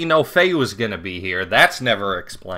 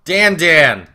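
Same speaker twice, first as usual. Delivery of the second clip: loud, high-pitched burst of surprise; excited exclamation; 6 semitones higher, 9 dB louder, much slower than usual. Pretend. Player spotting Dan arriving in the game, excited exclamation. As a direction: shout it out as Dan appears.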